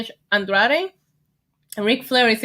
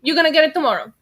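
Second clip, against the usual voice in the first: mock bright announcement; mock cheery surprise; 6 semitones higher, 4 dB louder than usual. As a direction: chirp it like a fake cheerful message. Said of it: "they were like".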